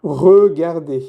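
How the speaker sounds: slow, syllable-by-syllable "Regarder"; slow model pronunciation. Shown as a demonstration. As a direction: draw out each French syllable of "Regarder". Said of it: "Y el verbo que era".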